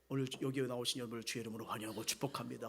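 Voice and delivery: fast, low rattled-off welcome; mock lonely pastor. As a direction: hurry through a welcome to empty pews. Mock welcome to an empty church.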